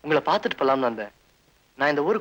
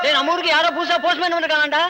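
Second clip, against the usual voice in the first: calling out; 13 semitones higher than usual. Acted. Calling out the news to others.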